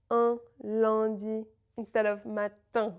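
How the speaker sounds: Un and lundi with rounded centred nasal, slowly, then matin spread; slow contrast of the two nasals; un versus in. Shown as a demonstration. Teacher contrasting nasal un with in, slowly. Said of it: "a little bit different".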